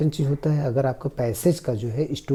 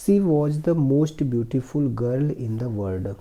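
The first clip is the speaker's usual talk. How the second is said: slow, careful reading of the English passage; slow reading aloud; much slower than usual. Shown as a demonstration. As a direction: read each word slowly for the class. Teacher reads story slowly. (धीमी आवाज़ में अंग्रेज़ी पढ़ना)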